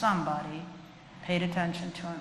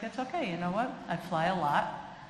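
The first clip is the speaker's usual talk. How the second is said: calm reassurance. Retold or imitated. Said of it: "I might put my hand on their hands like".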